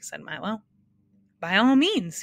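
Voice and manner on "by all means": bright eager reply, louder; happy. A narrator's reading. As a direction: jump in gladly, louder and higher. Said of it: "he replied happily".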